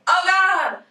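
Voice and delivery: seeing a hand pop up in the river, startled outcry; shocked gasp. Pretend. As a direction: blurt it out in sudden alarm. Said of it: "you're like".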